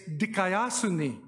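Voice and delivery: dikaiosune said slowly, syllable by syllable; Greek word dikaiosune. Shown as a demonstration. Teacher pronouncing dikaiosune slowly for students. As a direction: spell out dikaiosune for the class. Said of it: "the word that they translated".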